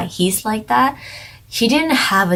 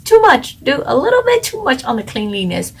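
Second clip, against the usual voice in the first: exasperated. Retold or imitated. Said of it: "It's like".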